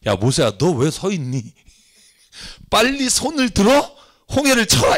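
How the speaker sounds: God urging Moses, rising high on 홍해를. Acted. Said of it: "그 다음 절이 진짜 웃겨요". (재촉하는 하나님, 홍해를에서 높게)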